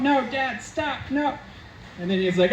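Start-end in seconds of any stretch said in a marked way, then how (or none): 0.0-1.4 high, fading panicked plea; panicked pleading. Retold or imitated. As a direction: beg your dad to drop it, voice climbing. Daughter begs dad to stop.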